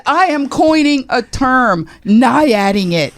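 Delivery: high, slow, loud announcing; excited proclamation. Retold or imitated. Host coining a word live on air. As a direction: proclaim the new word grandly. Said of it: "I said".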